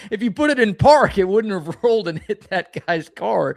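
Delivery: can't hold it together while scolding; laughing. Real, not acted. Cohost mocking his parking mistake, laughing.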